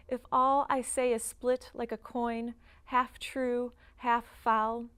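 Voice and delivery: even, deliberate verse recital; poem reading. Acted. Poet reading a memory poem to an audience, deliberate recital. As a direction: read it as a poem, phrase by phrase. Reads own poem aloud.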